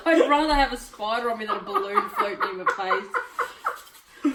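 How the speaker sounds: high, loud, laughing words; laughing hard. Real, not acted. Confessing a balloon fear to friends, laughing hard. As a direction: squeal it out through laughter.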